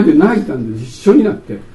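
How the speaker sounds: ordinary talk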